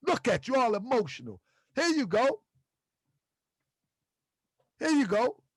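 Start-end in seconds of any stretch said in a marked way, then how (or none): 0.1-1.4 lightly voiced mocking taunt; a battle rapper's voice. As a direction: tease the crowd like a battle rapper. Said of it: "And my ... mo-, voice".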